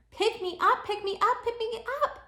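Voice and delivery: put-on high, loud pleading kid; little girl begging grandma to lift her; begging child. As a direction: bounce and beg to be picked up.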